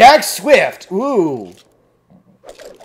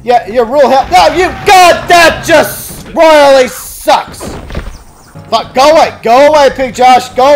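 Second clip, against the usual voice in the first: loud, high, furious gamer yell; frustrated yelling; 5 semitones higher, 5 dB louder than usual. Real, not acted. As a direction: blow up at the screen. Raging at game death.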